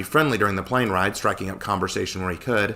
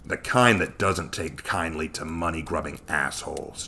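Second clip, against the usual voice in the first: snapping; 4 semitones lower than usual. Acted. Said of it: "Joshua snapped".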